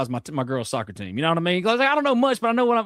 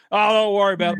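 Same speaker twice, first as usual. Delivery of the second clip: stoned buddy; 2 semitones higher, 5 dB louder, faster than usual. Retold or imitated. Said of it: "My really high friend".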